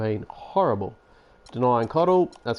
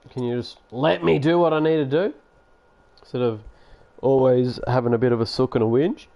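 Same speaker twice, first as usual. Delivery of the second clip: annoyed scolding; 3 semitones higher, 5 dB louder than usual. Real, not acted. Scolding a complaining player.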